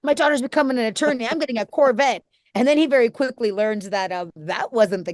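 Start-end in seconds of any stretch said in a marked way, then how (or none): 0.0-2.2 lightly voiced proud dad, higher; a hint of a boastful father dreaming of a Corvette; dad's bragging voice. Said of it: "He's like".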